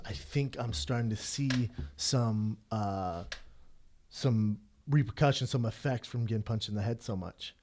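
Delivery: slow, mildly hesitant retold confession. Boxer confiding to a friend about head punches, mildly hesitant. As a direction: feel your way in, with drawn-out words and pauses. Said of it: "hesitant to talk about it".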